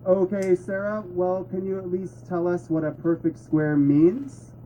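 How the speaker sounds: teacher gently leading her on; patient teacher. Shown as a demonstration. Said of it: "allow me to demonstrate".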